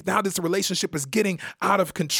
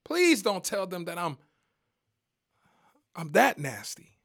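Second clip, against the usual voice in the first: pleading victim; 2 semitones higher than usual. Pretend. Voicing a pleading hidden victim.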